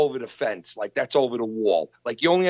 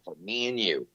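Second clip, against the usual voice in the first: lightly voiced stern father laying down the law; mock tough guy. Podcaster retells a message demanding a video come down, mock tough guy. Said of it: "he sounded like a tough guy".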